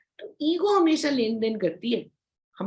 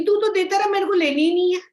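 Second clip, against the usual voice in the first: high, loud brush-off to an insulter; loud, proud refusal; defiant shout; 9 semitones higher, 7 dB louder, faster than usual. Acted. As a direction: fling it back loudly.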